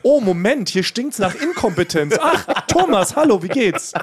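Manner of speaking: high, laughing mock greeting; mocking Basti. Retelling Basti's taunt at Thomas, high and laughing. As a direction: sneer it out, half laughing. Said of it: "Er hat nämlich erst gerufen".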